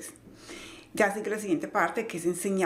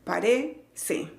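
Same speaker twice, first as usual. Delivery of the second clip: "Parece" split up, RE stressed; stress on second syllable. Shown as a demonstration. Teacher showing where the accent falls, RE stressed. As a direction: lean on the RE of "Parece", then a small break. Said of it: "tiene el acento en la segunda sílaba".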